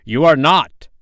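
high, loud, insistent denial; hoarse cry. A narrator's reading. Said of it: "cried Hook hoarsely".

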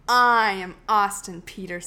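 lightly imitating a stern host; a hint of a pompous announcer; mock authoritarian. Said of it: "That was very authoritarian of you".

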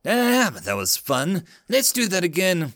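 high, thrilled yell; excited shout. Acted. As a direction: shout it out with glee. Thrill ride, whooping Marine.

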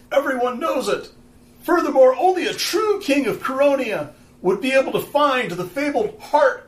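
screaming speech from a stage; raw throat-tearing yells. Acted. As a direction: yell it out to the crowd. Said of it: "starts just screaming from the stage".

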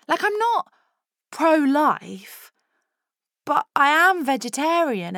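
put-on high drunk ramble. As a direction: babble high and loose.

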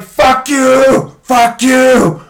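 high, loud cracking-point yell; shy kid finally erupting; acted outburst shout. Shy kid exploding at bullies.

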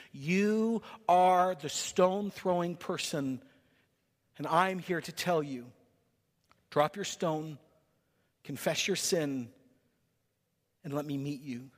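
slow, softening words of Jesus to a sinner. Acted. Jesus tells the stone thrower to drop his stone, gentle and softening. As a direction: let it sink to a near hush by the end.

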